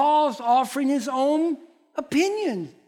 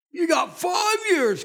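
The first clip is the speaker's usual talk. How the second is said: a sharp raised warning; preaching shout; 7 semitones higher than usual. Real, not acted. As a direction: hit it hard to wake them up. Preacher drives home point.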